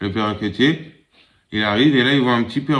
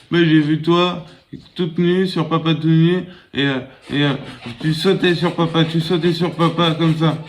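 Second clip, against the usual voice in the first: put-on child voice; 5 semitones higher than usual. Child tells mother in joke.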